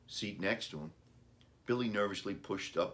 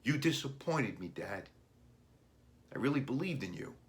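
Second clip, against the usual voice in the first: put-on higher, reproachful boy; hurt boy; 4 semitones higher than usual. A narrator's reading. Boy telling his dad he let him down, higher voiced. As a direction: let the disappointment show like a child.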